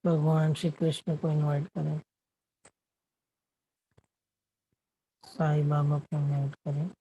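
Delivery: unhurried meditation guidance with long silences; guided meditation. Acted. Meditation host guiding the group to watch their breath, guided meditation. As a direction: lead them gently inward, leaving long pauses between phrases.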